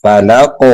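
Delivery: "فلق" with a bouncing q at the end; qalqalah on qaf. Shown as a demonstration. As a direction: release the q of "فلق" with an echo. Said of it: "یہاں پہ قلقلہ کریں گے".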